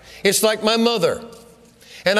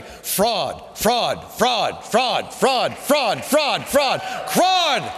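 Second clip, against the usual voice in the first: shouting fraud; much slower than usual. Acted. Ballots chanting to the crowd, building shout. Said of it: "These pieces of paper are shouting".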